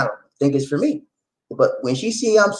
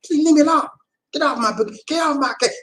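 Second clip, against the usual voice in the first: retold pleading; 8 semitones higher, faster than usual. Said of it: "she chew me out".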